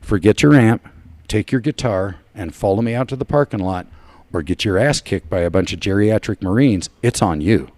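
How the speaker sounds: lightly voiced VFW commander giving orders; retold stern ultimatum, firm and measured; imitated commander. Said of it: "and he goes".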